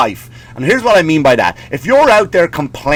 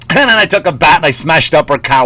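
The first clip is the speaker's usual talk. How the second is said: imitating a singer; 4 dB louder than usual. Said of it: "What if that singer brought that song out".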